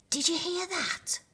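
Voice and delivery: high, excited exclamation; exclaiming. A narrator's reading. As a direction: burst out in delight. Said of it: "exclaimed Rhino".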